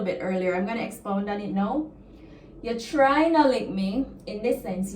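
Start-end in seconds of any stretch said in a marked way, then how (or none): 2.6-4.1 warning plea with a rise on no; a please that is really a threat; threatening tone. Shown as a demonstration. Teacher shows a threat to students, threatening tone. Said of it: "it comes with a threatening tone".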